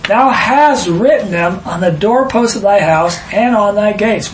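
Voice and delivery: solemn, measured reading of the Bible verse; scripture reading. Acted. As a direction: read it out like holy writ in church. Reads scripture aloud.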